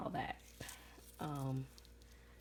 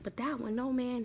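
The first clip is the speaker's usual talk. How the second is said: high, emphatic retold protest; mock astonishment, pitched up; imitated disbelief; 6 semitones higher, 4 dB louder than usual. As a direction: act out his refusal to believe it. Man reacts to being fooled.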